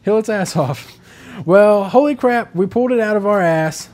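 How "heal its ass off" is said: urgent raid call. Retold or imitated. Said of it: "we were like".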